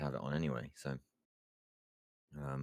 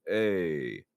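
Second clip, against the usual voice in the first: drawn-out "hey" noise; long held grunted hey; imitated character noise; 4 dB louder than usual. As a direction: mimic a game character's stock greeting noise. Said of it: "the only noise that they gave me as reference was".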